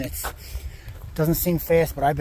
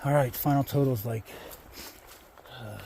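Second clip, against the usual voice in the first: drained and much softer; worn out, barely pushing words; exhausted; 9 dB quieter than usual. Real, not acted. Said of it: "I'm literally done".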